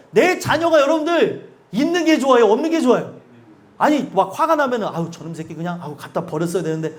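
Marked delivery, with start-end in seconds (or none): 4.9-6.9 a low, much softer mock grumble; grumbling parent. Angry parent grumbles about a child, low and soft. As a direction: mutter like an exasperated parent. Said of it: "이런 얘기 하시는 얘기를".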